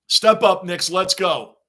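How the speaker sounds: loud rally cry at the team; fan shout. Real, not acted. Fan yelling at the Knicks on TV, loud rally shout. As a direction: call them to step up, full voice.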